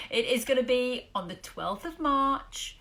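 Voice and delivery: slow, hammed-up regional accent on Birmingham; mock a local accent badly, slowly; terrible put-on accent. Host announcing the Birmingham event in a mock accent. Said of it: "Apologies for that terrible accent".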